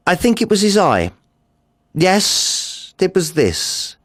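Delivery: high, fast and manic; a madman seizing on his obsession; manic excitement. Acted. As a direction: blurt it out with rising frenzy. Narrator fixes on the eye.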